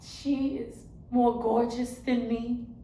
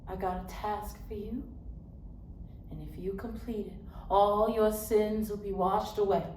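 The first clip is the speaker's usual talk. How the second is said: hushed divine message. Acted. God's silent message, voiced in monologue.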